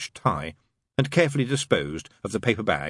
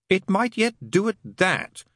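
slow, higher-pitched mild gloom; gloomy; 12 semitones higher, 3 dB louder than usual. A narrator's reading. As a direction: draw it out with a touch of gloom. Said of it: "said Crowley gloomily".

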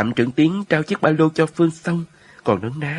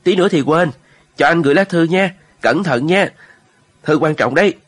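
breathless political officer; 5 semitones higher, 5 dB louder than usual. A narrator's reading. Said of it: "Chính trị viên Vũ với cái dáng tròn lẳng hỗn hển".

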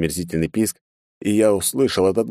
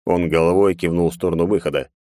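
ordinary delivery, nothing marked

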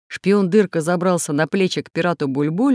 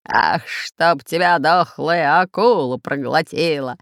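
slow, hammed-up pirate curse; pirate's cursing shout; slower than usual. Soaked pirate captain curses, mock shout. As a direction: bellow a mock curse like an old sea dog. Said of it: "закричал рыжебородый капитан Бульбуль".

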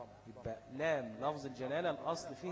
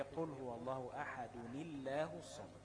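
Quran recitation; 4 dB quieter, slower than usual. Shown as a demonstration. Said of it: "فتبقى إيه؟".

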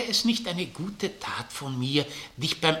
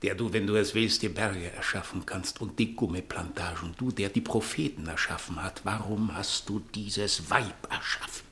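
lamenting prayer; 5 semitones lower, 4 dB quieter than usual. Acted.

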